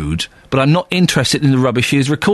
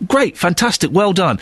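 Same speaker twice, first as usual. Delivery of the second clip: pitched-up mock enthusiasm; grudging, put-on congratulations; sarcastic praise; 5 semitones higher than usual. Host grudgingly praising the TV cook, sarcastic.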